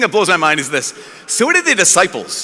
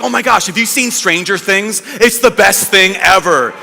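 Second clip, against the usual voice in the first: mildly raised, emphatic rave; excited gushing. Retold or imitated. Fan raving about a new TV show, excited gushing. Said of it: "Those people who are yelling".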